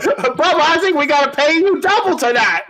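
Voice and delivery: a hint of a booker pitching; lightly voiced booker. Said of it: "I can see him like".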